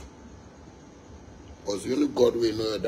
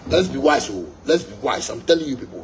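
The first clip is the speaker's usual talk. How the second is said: forceful exhortation; 2 semitones higher, 5 dB louder than usual. Real, not acted. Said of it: "preaching emphatically".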